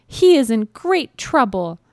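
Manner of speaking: high little mouse voice; high-pitched storybook mouse; mouse character. A narrator's reading. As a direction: play a tiny mouse worried for a friend. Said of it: "thought the mouse".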